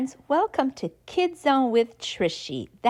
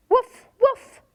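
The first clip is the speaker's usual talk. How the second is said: high, loud puppy woof; dog bark; 12 semitones higher, 5 dB louder than usual. Acted. Reading to kids, a loud high puppy woof. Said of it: "says the dog".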